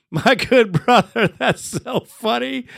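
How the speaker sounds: chuckling through the words; amused, laughing aside. Real, not acted. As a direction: laugh while you greet him. Host laughing at caller's name.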